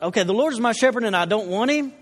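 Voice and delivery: puzzled questioning take on "don't want him"; confused child reading. Retold or imitated. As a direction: read it like a kid who misunderstood, rising into a question. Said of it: "this kinda confused me".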